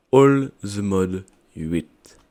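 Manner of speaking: All the Mod huit drawn out slowly and boomed out like a big reveal; grand announcement. Acted. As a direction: stretch out All the Mod huit like a show host announcing a title. Announcing the new modpack name.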